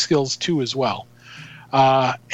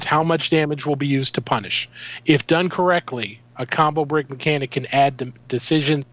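robot voice; 2 semitones lower than usual. Real, not acted. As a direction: read it like a robot. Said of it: "now we got Robot Steve".

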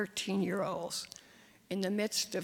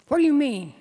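loud, higher sharp reply; sharp startled question; 5 semitones higher, 10 dB louder, faster than usual. Acted. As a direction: snap it back in alarm. Startled boy snapping back.

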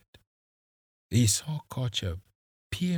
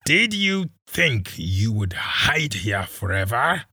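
louder, contemptuous spat question; 2 semitones higher, 6 dB louder than usual. Acted. Kisii spitting scorn at the captives, louder. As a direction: spit the words at him. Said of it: "he spat".

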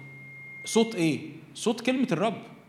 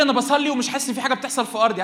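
a louder, higher plaintive churchgoer; complaining believer; 6 semitones higher, 6 dB louder, faster than usual. Pretend. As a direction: whine it like a discouraged believer. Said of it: "هتقول لي".

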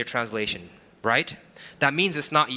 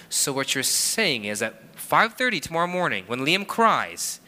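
incredulous husband; 3 semitones higher than usual. Retold or imitated. Husband pressing his wife on the early wake-up, incredulous. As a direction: push the question higher in mock disbelief. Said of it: "And I go".

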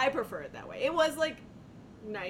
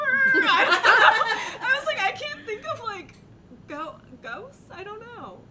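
high, laughing and flustered; 11 semitones higher, 10 dB louder, slower than usual. Real, not acted. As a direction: talk through giggles, caught off guard. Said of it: "laughing through retold answer".

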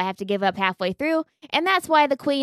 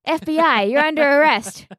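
hammed-up FBI agent, louder at the end; mock agent; 4 semitones higher, 5 dB louder than usual. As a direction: bust in like a cartoon cop. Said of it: "And I say".

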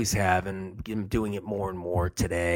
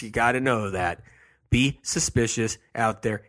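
ordinary talk

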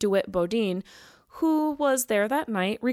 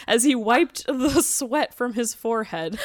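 laughing while reading; 3 semitones higher, 3 dB louder than usual. Real, not acted. Reading a funny quote, cracking up.

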